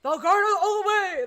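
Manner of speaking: high, loud enthusiastic cheer; excited cheer. Real, not acted. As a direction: cheer it like a fan. Cheering for favourite gun.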